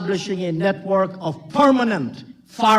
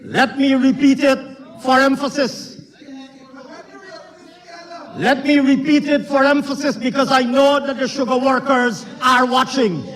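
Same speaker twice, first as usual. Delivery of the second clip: raised, insistent speech-making; forceful parliamentary oratory; 5 semitones higher than usual. Real, not acted. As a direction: project it firmly over the chamber. Insistent speech over heckling in parliament.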